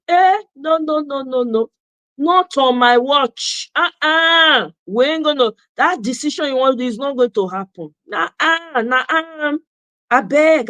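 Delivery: insistente, no on my watch; firm sassy refusal. Pretend. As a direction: shut him down, firm and sassy. Voicing wife refusing husband.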